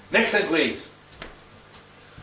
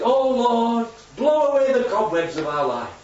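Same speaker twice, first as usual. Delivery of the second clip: praying man; 4 semitones higher than usual. Acted. Churchgoer at a prayer meeting, intoning his usual prayer. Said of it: "the same man stood up and said".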